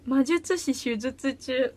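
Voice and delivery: slow, careful tongue twister; deliberate test of a tricky phrase; tongue-twister attempt. Shown as a demonstration. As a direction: take the twister slowly, syllable by syllable. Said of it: "これいける。".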